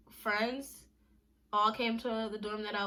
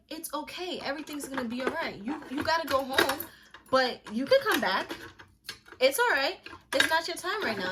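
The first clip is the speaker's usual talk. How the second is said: higher-pitched mock mentor reassurance; retold reassurance; 5 semitones higher, 5 dB louder than usual. Mentor comforting a crying recruit sent home, reassuring. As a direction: imitate a friend insisting it's fine.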